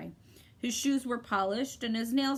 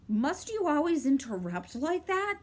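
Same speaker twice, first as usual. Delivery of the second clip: irritated; 6 semitones higher than usual. A narrator's reading. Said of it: "said Talk irritably".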